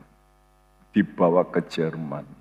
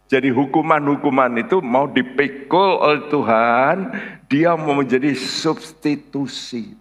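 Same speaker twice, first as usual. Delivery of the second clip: raised preacher's voice, drawing out the final phrase; emphatic preaching; 6 semitones higher, 4 dB louder than usual. Real, not acted. Preacher explaining God as substitute, emphatic preaching. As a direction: build it as a forceful sermon point.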